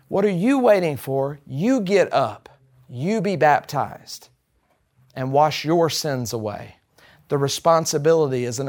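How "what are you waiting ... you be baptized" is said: each "you" leaned on, phrase by phrase; slow down and point each "you" at the listener; deliberate weight on every "you"; stress on YOU. Shown as a demonstration. Puts responsibility on the listener.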